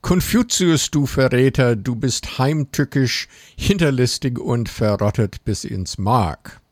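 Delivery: put-on shrill chirpy kid voice chanting insults; bird folk. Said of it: "mit piepsiger Stimme gekreischt". (piepsig kreischende Schulkinder)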